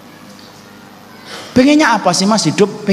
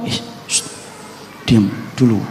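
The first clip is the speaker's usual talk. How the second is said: soft breathy hush, telling someone to be quiet; hushed shushing; 8 semitones lower, 6 dB quieter than usual. Retold or imitated. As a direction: whisper it as if calming someone beside you. Hushing his wife mid-story. (berbisik menyuruh istri diam)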